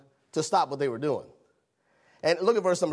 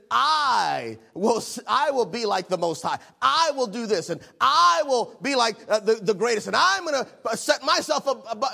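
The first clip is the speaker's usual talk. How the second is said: boastful Lucifer, higher pitch, hard on each "I"; proud boast; 3 semitones higher than usual. Acted. Lucifer vowing to rise above God, proud boast. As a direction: puff up with pride on every "I will". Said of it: "because in his pride, he says".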